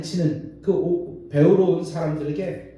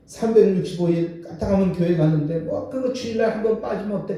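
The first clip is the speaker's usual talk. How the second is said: careless scoffing. Retold or imitated. Worldly person dismissing worship.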